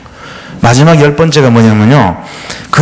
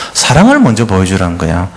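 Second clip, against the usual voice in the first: ordinary delivery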